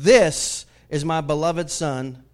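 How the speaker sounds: slow, emphatic voice from the cloud; voice of God. Acted. God declaring his beloved Son from the cloud, proclaiming voice. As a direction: proclaim it loud and slow, then settle. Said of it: "here's what it says".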